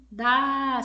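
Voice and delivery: "dá" held long and loud; drawn-out stressed syllable. Shown as a demonstration. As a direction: call out "dá", stretching the vowel. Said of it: "você demorou mais". ("dá" forte e alongado, como um chamado)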